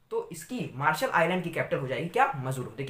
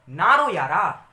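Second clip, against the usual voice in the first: comforting call; 7 dB louder, slower than usual. Pretend. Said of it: "तो आपने कहा".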